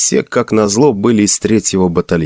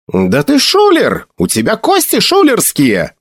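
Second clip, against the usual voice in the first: angry accusation; 11 semitones higher than usual. Acted. Magrad accuses cheater.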